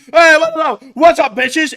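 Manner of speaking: high cocky marmot voice. Pretend. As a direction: greet like a cocky cartoon pimp. Voicing the pimp marmot.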